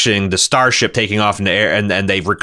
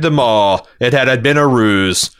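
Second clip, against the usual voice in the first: Picard reading. Acted. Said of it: "reading from his new novel".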